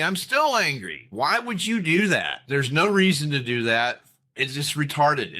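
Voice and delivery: heated, rising rant; real anger. Real, not acted. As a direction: vent the frustration hard. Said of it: "I'm so angry".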